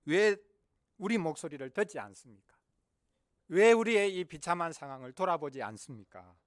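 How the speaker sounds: loud accusing questions; complaining outcry. Acted. Israel's descendants complaining before God, loud protest. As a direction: punch each opening word in protest. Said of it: "계속해서 불평합니다".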